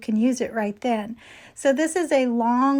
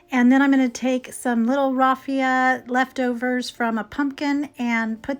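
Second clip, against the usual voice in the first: slightly hoarse, losing voice. Real, not acted. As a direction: talk through a hoarse, fading voice. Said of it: "I'm kinda losing my voice".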